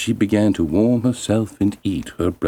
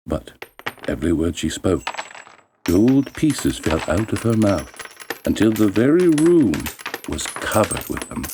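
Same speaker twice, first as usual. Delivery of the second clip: ordinary delivery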